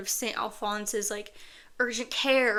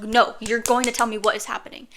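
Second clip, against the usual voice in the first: put-on a firm, louder demand from a crying child; angry demand; 6 dB louder, faster than usual. Child demanding the truth from her grandma, retold angry. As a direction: insist she tell you now, retold with some heat. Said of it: "I started getting angry and bawling".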